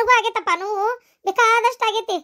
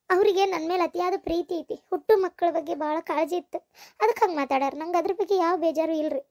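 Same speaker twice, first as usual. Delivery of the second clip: subdued reply; 2 semitones lower, 6 dB quieter than usual. Acted. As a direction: answer gently and quietly. Daughter-in-law answers father-in-law softly.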